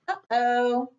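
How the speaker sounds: ordinary delivery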